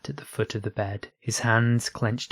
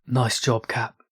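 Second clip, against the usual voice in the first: shout; 2 semitones higher, 4 dB louder, slower than usual. A narrator's reading. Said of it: "Smee shouted".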